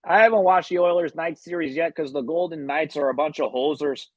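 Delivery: put-on playful Canadian hockey-player accent. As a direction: lay on a jokey Canadian accent. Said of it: "I start talking like hockey players".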